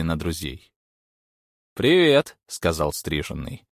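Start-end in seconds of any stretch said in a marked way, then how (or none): 1.7-2.4 lifted, louder greeting; a sharp, loud hello; higher character voice. A narrator's reading.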